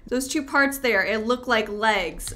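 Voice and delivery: real fright, gasp and loud; startled. Real, not acted. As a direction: caught off guard by a shape. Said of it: "that just scared me so badly".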